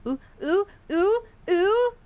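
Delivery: high rising ooh sounds; excited cooing. Real, not acted. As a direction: coo with delight. Reacting as chat readies up.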